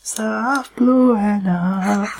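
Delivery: slow, soft mock plea. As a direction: drag it out softly, hammy.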